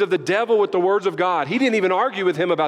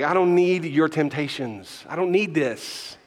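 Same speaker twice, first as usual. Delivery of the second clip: slow firm refusal; slower than usual. Acted. Voicing a reply to the devil.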